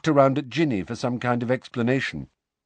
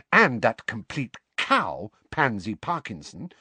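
vicious. Acted. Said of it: "said Hermione viciously".

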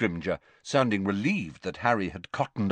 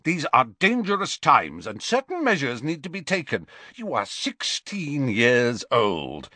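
stern minister; 6 semitones higher than usual. A narrator's reading. Minister lecturing Harry sternly.

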